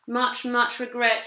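a slow apologetic call across the shop. Acted. Shopkeeper calls out his regret from the corner, loud and slow. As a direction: stretch it out loud to the customers. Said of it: "he called out".

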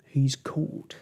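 mildly woeful moan; understated storybook lament. A narrator's reading. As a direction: moan it out in dismay. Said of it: "moaned Mister Lizard".

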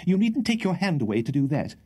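a hint of an anxious toff currying favour; nervous Mr Winkle. A narrator's reading. Winkle voiced by narrator.

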